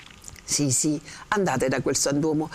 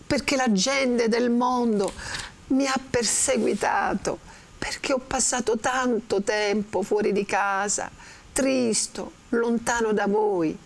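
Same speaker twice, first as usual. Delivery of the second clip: Renzo in crescendo; 6 semitones higher than usual. Acted. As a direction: build the lament to move her. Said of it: "Vedete come Renzo cerca di commuovere, in crescendo".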